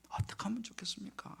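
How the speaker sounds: whispered plea to God; retold hushed, imploring prayer; pleading prayer. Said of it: "기도원에 이제 그때 가서 기도를 했어요".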